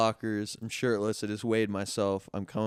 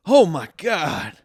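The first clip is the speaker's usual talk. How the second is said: mock amazement; 7 semitones higher, 11 dB louder, slower than usual. Retold businessman reacts, amazed.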